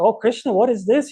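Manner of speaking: hammed-up dismay at a moderate pitch lift; crazed inspector. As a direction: exclaim in comic, acted outrage. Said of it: "The inspector goes even crazier".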